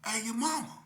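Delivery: high, loud cocky shout; yelling back at the cops, cocky; mock yell back. Teen yells back at unseen police, cocky shout. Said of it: "and I'm like".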